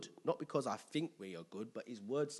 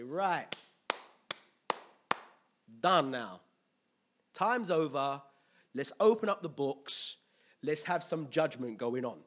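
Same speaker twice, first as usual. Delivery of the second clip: God calling time; 6 dB louder than usual. Acted. Acting God announcing judgment day.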